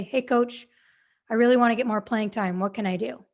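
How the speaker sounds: easy and sincere, genuinely asking; sincere request. Shown as a demonstration. Player sincerely asking the coach for help, earnest. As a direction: ask like you really want help. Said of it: "sounding like you really want help".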